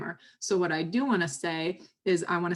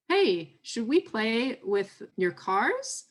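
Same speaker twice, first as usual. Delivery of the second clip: put-on higher, slow, child-directed question; parent coaxing child; 4 semitones higher, much slower than usual. Shown as a demonstration. Parent rephrasing a play invitation to child, coaxing. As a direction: lilt it slowly up to a little one.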